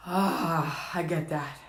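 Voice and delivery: very low, soft sigh of recognition; hushed, understanding murmur; tender understanding. Retold or imitated. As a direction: answer softly and low. Tender answer to the wound.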